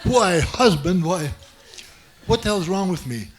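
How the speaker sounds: shocked cry of husband, laughing, slowing down; gasping shock. Retold or imitated. Storyteller re-enacts his stunned reply to the masseuse, laughing in shock. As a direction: act stunned, then despairing with laughs. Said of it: "And now I gasped".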